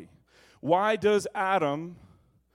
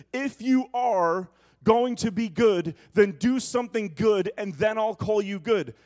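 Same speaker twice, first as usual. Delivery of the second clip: conditional demanding voice; 4 dB louder than usual. Retold or imitated. The world's voice setting conditions, stern and loud. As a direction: set terms like a demanding boss. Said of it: "the voice that says".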